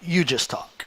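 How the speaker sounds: hushing the crowd with soft shh sounds, fading to almost nothing; quiet them down, shh, shh, let him talk; an awed, breathless shushing of the room. Pretend. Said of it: "Shouldn't people just be like".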